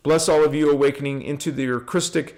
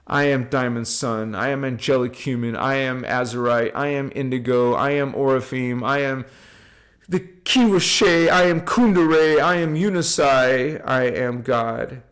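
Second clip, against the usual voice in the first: guided affirmation; 2 semitones lower than usual. Shown as a demonstration. Teacher leading viewers in affirmations, solemn call to repeat. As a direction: lead the group in a sacred affirmation. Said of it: "Say it with me".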